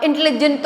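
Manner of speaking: "इंटेलिजेंट" hurried into one piece, middle vowel squashed; run-together mispronunciation. Shown as a demonstration. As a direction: rush "इंटेलिजेंट" as in-tli-jent. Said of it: "तो बोल ही नहीं सकते".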